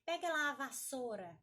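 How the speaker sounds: casual "vassoura" said as "vassôra"; everyday speech, "vassoura" with plain ô; u swallowed. Retold or imitated. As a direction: imitate people dropping the u in "vassoura". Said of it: "ouvir gente falando assim".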